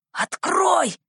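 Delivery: high, urgent demand, voice tight with anger; angry hissed order. A narrator's reading. Thief ordering the boy to open, angrily. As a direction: order it open in a furious, rising burst. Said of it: "прошептал прерывающийся от злости голос".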